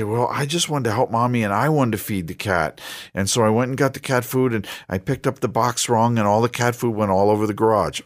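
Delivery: a hint of a contrite child explaining. Child confessing to parent.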